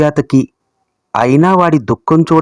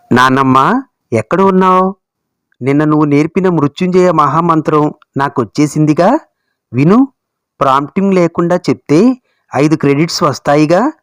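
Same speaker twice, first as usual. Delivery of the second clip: a hint of a little boy's chirp; lightly voiced eager grandson. Voices excited grandson in story. (మనవడి ఉత్సాహపు గొంతు, కొద్దిగా)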